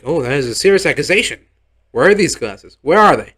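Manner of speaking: an officiant caught off guard, pressing for proof; mock-startled officiant demanding the glasses; surprised officiator. Officiator questions the accusation.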